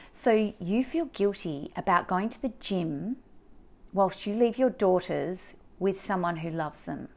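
slow, deliberate questioning, lightly imitating a therapist; pointed therapist question. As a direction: lay it out slowly, as if stating the obvious. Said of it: "the way she said it".

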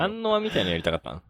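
high-pitched mock-amazed question; teasing disbelief. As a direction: keep the voice way up as you ask. (甲高い声で驚いたふりをして聞く)

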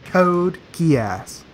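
"Code Geass" separated into two clear words; correcting repetition. Shown as a demonstration. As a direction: correct them with a distinct, paused "Code Geass". Repeats title to correct a mishearing.

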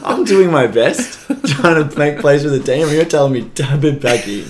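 hammed-up grievance, laughing; mock indignation. Player ranting to teammate about the call, mock indignant and laughing.

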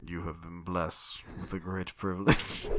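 slow, low menacing killer; serial killer voice. Acted. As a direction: deliver it like a creepy psychopath. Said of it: "I have a fucking fantastic serial killer voice".

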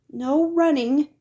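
a librarian's reminder across the hall; calling after. A narrator's reading. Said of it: "Miss Merriweather called after him".

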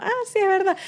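lightly voiced eastern Venezuelan quip; mock eastern Venezuelan friend; Cumanés imitation. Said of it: "un amigo cumanés que dijimos".

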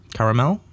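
caramel as three syllables, CARE-uh-mel, with a questioning lift; "caramel" tried with an "air" first vowel and a clear -mel ending; trying out pronunciations. Shown as a demonstration. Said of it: "I don't know how to say it".

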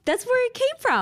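gasp, then very high-pitched delight; high, thrilled "aha" moment; excited realisation. Real, not acted. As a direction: exclaim it like a sudden revelation. Gasps at confirmation of her guess.

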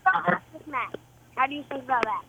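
speaking through a hand over the mouth; muffled, covered voice on the phone. Real, not acted. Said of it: "you're a little muffled".

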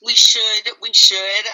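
words pushed out through a burp. Real, not acted. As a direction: talk through a burp, loud. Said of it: "I had to burp on that one".

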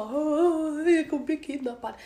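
lätt härmad ängslan med utdraget åh; låtsad paranoia. Acted. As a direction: spela lite överdrivet orolig. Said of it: "det är inte samma, det är inte så". (lite tillgjort ängsligt)

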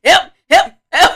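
high, loud, laughing cries; hammed-up plea through laughter; laughing mock help.

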